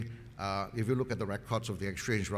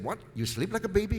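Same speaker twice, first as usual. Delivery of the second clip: higher incredulous retold question; an amused mock disbelief at the baby line; a bit excited; 8 semitones higher than usual. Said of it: "this guy got a bit excited".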